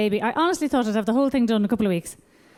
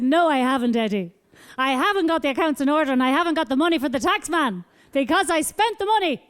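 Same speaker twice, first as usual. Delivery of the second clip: put-on high sing-song baby talk; 3 semitones higher than usual. Baby voice to accountant.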